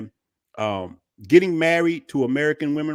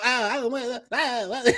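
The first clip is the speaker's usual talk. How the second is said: mock Valley Girl accent, higher; a teasing Valley Girl accent; a higher, teasing imitation of his ex-wife's Valley Girl accent; 8 semitones higher than usual. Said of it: "she got that Valley Girl accent".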